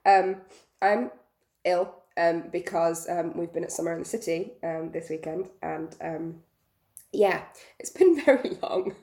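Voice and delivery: croaky, ill-sounding voice. Real, not acted. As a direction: speak with a sick croaky throat. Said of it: "my very weirdly croaky voice".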